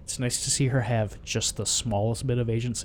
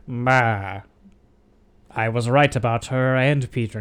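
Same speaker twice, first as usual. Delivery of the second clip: lightly voiced ghostly father; a hint of a villain father's voice, a bit louder; Willem Dafoe; 5 dB louder, slower than usual. Imitating the voice in Harry's head, lightly acted villain dad. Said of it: "Willem Dafoe comes back and goes".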